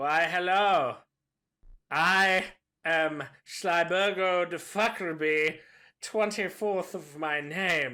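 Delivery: smug, smarmy, low and slow. Voicing a robed figure greeting the players: smarmy character voice. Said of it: "Some smarmy fucking asshole".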